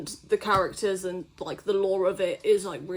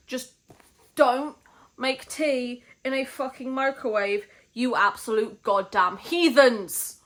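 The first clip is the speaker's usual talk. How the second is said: ranting; 2 semitones higher, slower than usual. Real, not acted. Tea rant at viewers.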